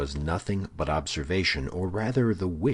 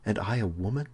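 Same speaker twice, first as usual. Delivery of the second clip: higher-pitched, modest protest; modest dismay; 6 semitones higher than usual. A narrator's reading. Woman shrinking from confessing to a man, high modest dismay. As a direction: raise the voice in pitch, as if ashamed. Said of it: "with the blush of modesty".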